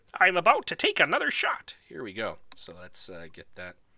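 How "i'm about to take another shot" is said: high, cartoon frog-puppet voice. About to take another shot, the speaker talks in a Kermit the Frog voice. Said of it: "Kermit the Frog here".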